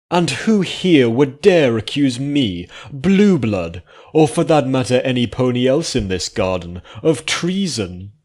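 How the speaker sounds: scoffing. Acted. Blueblood scoffing at the old unicorn, high and loud. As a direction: dare them to accuse you. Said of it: "Blue blood scoffed".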